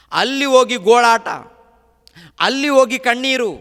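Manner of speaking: high, loud lament from the pulpit; fiery preaching. Acted. Preacher describing the rich man's torment, loud and high. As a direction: cry it out to stir the hall.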